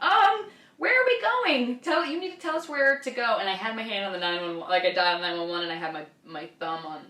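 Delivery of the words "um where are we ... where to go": panicked demand. Retold or imitated. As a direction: demand answers in an acted panic, voice way up. Retold panicked demand to the driver.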